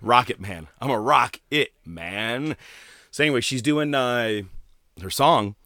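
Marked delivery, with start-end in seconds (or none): 0.8-2.6 slow spoken-word rendition of a lyric, lightly put on; Stewie. Cartoon character doing a song, slow spoken delivery. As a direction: stretch out each word, half-imitating. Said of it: "like, Stewie doing".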